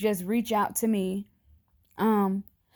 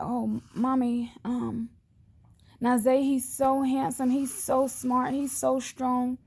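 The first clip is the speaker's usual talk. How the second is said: higher, slow child's voice, a light imitation; child quoted lovingly; 4 semitones higher, slower than usual. Child's praise retold to mom.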